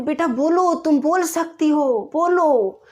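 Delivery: urging encouragement. Retold or imitated. Teacher urging a stammering girl to speak, encouraging. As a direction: coax the child firmly to speak up.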